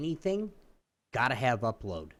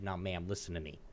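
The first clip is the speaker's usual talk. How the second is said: quietly firm; 7 semitones lower, 8 dB quieter than usual. Retold or imitated. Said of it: "I started getting mad".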